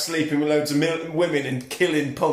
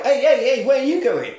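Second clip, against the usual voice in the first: high, loud call to stop someone; 9 semitones higher, 6 dB louder than usual. Retold or imitated. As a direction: call after her to halt. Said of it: "Steve's like".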